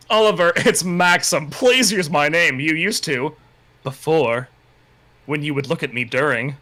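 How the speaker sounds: slow, drawn-out mock romantic plea; hammed-up yearning. Reader voicing Maxim's plea to Oliver, hammed-up yearning. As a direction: linger on each phrase, overacting the longing. Hammed-up pleading dialogue from novel.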